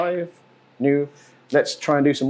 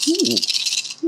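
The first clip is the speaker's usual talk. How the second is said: excited ooh; 14 semitones higher than usual. Real, not acted. Good dice roll.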